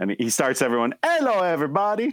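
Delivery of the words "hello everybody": put-on pitched-up old Italian grandpa voice, Italian accent. Imitating the greeting of an Instagram cooking video: imitating an old Italian grandpa. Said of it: "an old Italian grandpa".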